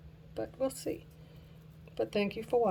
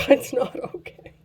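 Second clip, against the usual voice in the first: loud laughing denial; laughing exasperation; 5 semitones higher, 9 dB louder than usual. Real, not acted. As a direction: laugh it out, fed up. Laughing, contradicting herself.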